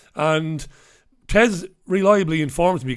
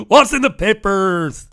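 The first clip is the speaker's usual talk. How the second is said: announcer voice; 3 semitones higher, 8 dB louder, slower than usual. Acted. Jingle-like segment announcement.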